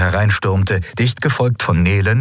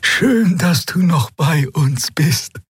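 much higher, slow and drawn out; drawling voice; 9 semitones higher, slower than usual. Acted. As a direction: drag the words out gently. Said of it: "ihre schleppende Stimme". (schleppend, hoch und langsam gesprochen)

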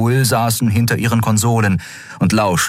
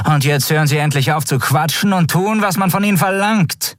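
icy cold; 11 semitones higher than usual. A narrator's reading. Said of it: "ihr Ton kalt wie Eis".

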